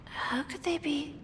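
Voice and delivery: soft, slow and unsure, trailing off; wondering aloud, doubting herself; hesitant. Acted. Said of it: "She sounds a little hesitant".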